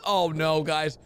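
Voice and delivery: ordinary talk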